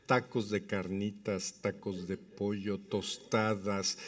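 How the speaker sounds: slow, low menu listing; savoring restaurant advert; advert style. Pretend. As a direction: list each dish softly and slowly like an ad. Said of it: "Ya parezco anuncio de Casa de Toño".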